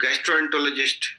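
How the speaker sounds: gastroenterologist sounded out as "gas-tro-en-to-lo-jist"; pronunciation model. Shown as a demonstration. Coach showing trainees a hard term, gastroenterologist pronounced "gas-tro-en-to-lo-jist". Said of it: "ये भी बोलने का pronunciation".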